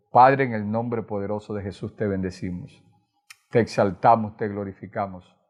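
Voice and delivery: low-pitched, reverent prayer; closing prayer. Real, not acted.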